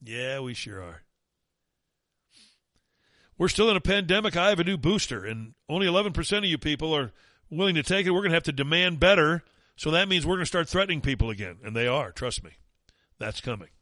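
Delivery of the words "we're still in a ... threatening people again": mocking Fauci, higher and louder; hammed-up mocking imitation. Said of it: "mocking Fauci".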